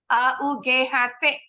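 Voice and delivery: A U G H T said letter by letter; letter-by-letter spelling. Shown as a demonstration. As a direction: spell A U G H T clearly. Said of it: "G-nya silent".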